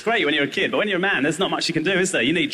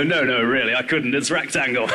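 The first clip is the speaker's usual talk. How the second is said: prim refusal; 5 semitones lower than usual. Retold or imitated. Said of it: "they go".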